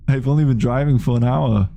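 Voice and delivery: comedy Arnold. Retold or imitated. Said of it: "I can do a, a Julius".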